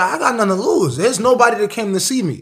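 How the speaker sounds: high, loud, fired-up cry; a retold pre-fight roar; defiant yell. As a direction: shout it to psych yourself up. Retold inner cry before fight.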